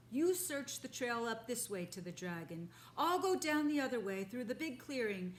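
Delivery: a boar taking charge of the search; commanding boar. Acted. First boar sending the others off, commanding.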